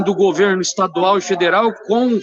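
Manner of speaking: choppy phone line, words dropping; broken-up call audio; call cutting out. Real, not acted. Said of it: "Tá cortando".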